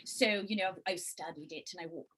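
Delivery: lightly put-on English accent; demonstrating an English dialect. Shown as a demonstration. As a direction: slip into a low-key English accent. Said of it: "I did an English dialect".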